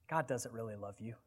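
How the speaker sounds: low, hushed tempter's voice; insinuating whisper. Acted. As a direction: murmur it softly, like Satan planting doubt in an ear. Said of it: "Satan is going to whisper into your ear".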